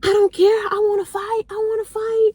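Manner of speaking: put-on high whiny drunk girl insisting on a fight; drunk friend. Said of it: "So she like".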